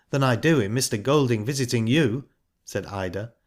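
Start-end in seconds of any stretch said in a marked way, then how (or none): 0.1-2.2 put-on pointed accent on "you"; stress on YOU. A narrator's reading. Ida turning the charge on Missus Bryce, stressing "you". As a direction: land meaningfully on the final "you". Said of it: "the accent on the "you" was pointed".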